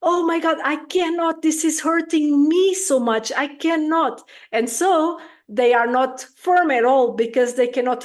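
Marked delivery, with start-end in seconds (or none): 0.0-4.3 higher, pained parent voice; mock anguish of a parent who can't bear it; overwhelmed parent. Permissive parent overwhelmed by her crying child, higher and pained. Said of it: "feel it more with like".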